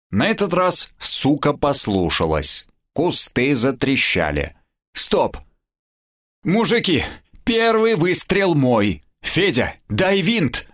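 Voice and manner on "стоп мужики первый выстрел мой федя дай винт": high, excited howl; ecstatic howl. Acted. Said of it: "в экстазе завыл Костя".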